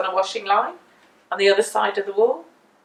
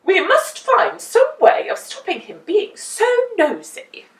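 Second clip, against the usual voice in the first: raised, louder voice of the town carpenter; old Mister Chips; 9 semitones higher, 6 dB louder than usual. A narrator's reading. The carpenter rallying neighbours, raised and loud. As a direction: voice him urging the town meeting. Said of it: "said old Mister Chips".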